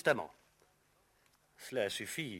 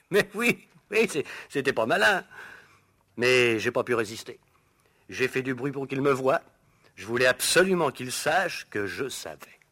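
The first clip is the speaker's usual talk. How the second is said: gleeful laughing; 3 semitones higher, 6 dB louder than usual. Acted. Gleeful confession of spying.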